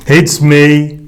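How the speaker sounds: a groaning, guilty admission. A narrator's reading. Jonah admitting guilt to the sailors, groaning. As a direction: groan the confession out. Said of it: "Jonah groaned".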